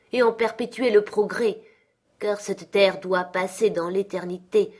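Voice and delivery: a chained spirit grieving his wasted life; Marley's ghost. Acted. (le fantôme de Marley, plainte solennelle et forte)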